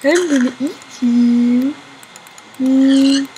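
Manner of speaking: loud playful shrieking; excited shrieks. Real, not acted. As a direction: yell at the piglets in mock glee. Shrieking at pigs in game.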